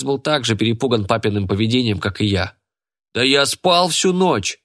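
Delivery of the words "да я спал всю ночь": high, slow insistence; frightened slow protest. A narrator's reading. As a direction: protest innocence to the angry father. (Хас испуганно оправдывается перед отцом)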